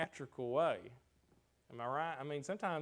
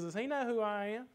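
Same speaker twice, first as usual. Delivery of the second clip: indignant Naaman; 9 semitones higher, 5 dB louder than usual. Retold or imitated. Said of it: "He goes".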